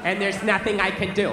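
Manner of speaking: a lightly voiced sorry-sir phone agent; mock service agent. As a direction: parrot a scripted call-centre apology. Imitating customer service agent.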